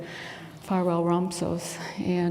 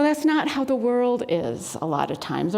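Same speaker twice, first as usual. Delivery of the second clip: ordinary talk, nothing marked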